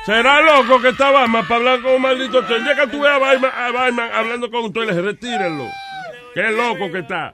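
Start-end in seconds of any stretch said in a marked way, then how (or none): 0.0-5.7 indignant disbelief. Real, not acted. Old man objecting to a talking toilet joke, indignant. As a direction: protest the absurdity, high and forceful. Viejo indignado por el chiste.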